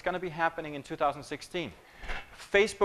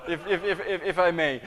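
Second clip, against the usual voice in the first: laughing. Real, not acted. Still laughing after the joke.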